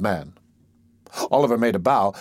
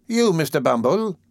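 astonished whisper; 6 semitones higher than usual. A narrator's reading. Astonished question.

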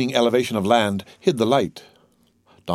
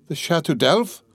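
higher-pitched, rising question; startled cry; 5 semitones higher than usual. Acted. Prisoner learns he's bound for the fortress, startled question. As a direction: exclaim it in disbelief, without shouting. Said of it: "cried he".

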